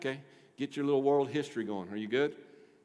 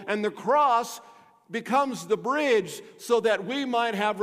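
raised, punchy gospel preaching; forceful preaching; 4 semitones higher, 5 dB louder than usual. Real, not acted. Pastor explaining God's rescue plan to the church, forceful preaching. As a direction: drive the good news home.

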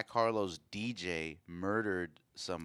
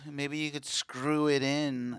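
seductive; 4 semitones higher, slower than usual. Pretend. Sexy roleplay, plumber porn parody.

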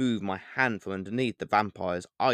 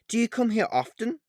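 smooth vampire; 11 semitones higher than usual. Acted. Vampire flirts with narrator.

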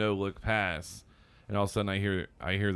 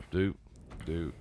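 ball bouncing; 4 semitones lower, 7 dB quieter than usual. Retold or imitated. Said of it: "you just heard the ball go".

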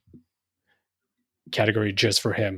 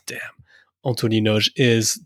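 ordinary talk, nothing marked

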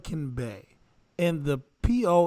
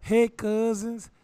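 put-on New Orleans accent; 3 semitones higher, slower than usual. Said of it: "read the whole thing in the New Orleans accent".

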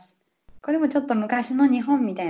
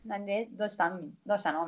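calm teacher; 7 dB quieter, faster than usual. Shown as a demonstration. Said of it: "そんな笑い誘うような感じじゃない".

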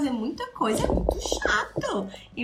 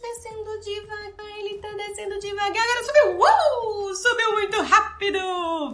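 modulated play narration; 9 semitones higher, 4 dB louder than usual. Shown as a demonstration. Therapist narrating the child's car for the child, high and modulated. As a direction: narrate the toy car's ride with big ups and downs. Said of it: "Viu a modulação na entonação de voz".

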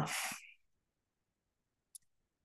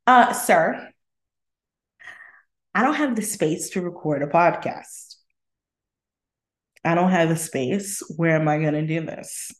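sassy diva. Retold or imitated. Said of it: "rolls eyes, bats hair".

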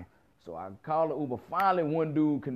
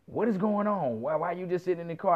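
higher, indignant woman's questions; imitating the chick's higher, demanding tone; mock woman voice; 3 semitones higher than usual. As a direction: play the annoyed girl, pitched up. The chick confronting him.

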